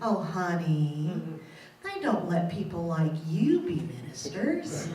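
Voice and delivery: a light imitation of a Southern mother; sweet Southern voice. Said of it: "in that great, sweet Southern voice".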